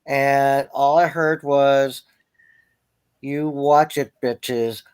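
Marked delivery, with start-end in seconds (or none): 3.2-4.8 a lightly voiced menacing cat with a laugh; voicing the cat. Cat whisperer voicing the hissing cat, mock menace. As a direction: play the cat threatening revenge, half laughing. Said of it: "I'm a cat whisperer".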